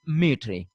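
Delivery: "Mitri" said as spelt, ending in -ree; misreading pronunciation. Shown as a demonstration. Teacher showing students the spelling-led misreading, pronounced MEE-tree. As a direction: say "Mitri" with the R before the final ee. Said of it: "pronounced as".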